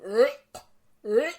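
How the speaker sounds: imitated gag behind a hand; short muffled mock retches; stifled retching. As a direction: mimic gagging, trying to hold it in. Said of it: "trying not to be very loud".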